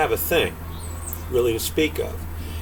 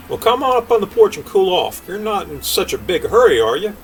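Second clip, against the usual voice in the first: voiced king; 6 semitones higher, 4 dB louder than usual.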